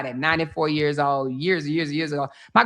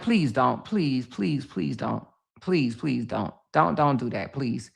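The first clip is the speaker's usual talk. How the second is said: begging; 6 semitones lower than usual. Retold or imitated. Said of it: "And I begged her not to".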